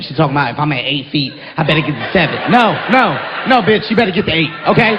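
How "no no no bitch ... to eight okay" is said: indignant retort. Retold or imitated. Retorting to the guide's advice.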